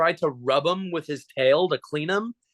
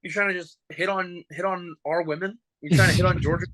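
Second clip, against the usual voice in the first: higher, hammed-up tough-guy challenge; mock confrontation; 5 semitones higher than usual. Retelling how he confronted the mascot, mock challenge. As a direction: puff up and jokingly call him out. Confronting Obby in retold photo.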